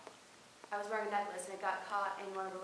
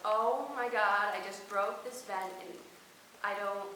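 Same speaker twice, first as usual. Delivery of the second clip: loud, panicky retelling of being stuck; a kid caught in the vent, loudly panicking; panicked blurt; 6 dB louder than usual. Retold or imitated. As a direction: blurt it out in a frightened rush. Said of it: "all I could say was".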